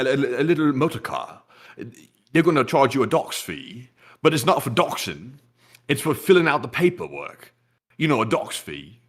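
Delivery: lightly done British marmot voice; botched British accent. Pretend. Marmot explains car fees to the host, rough British accent. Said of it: "with this accent tonight".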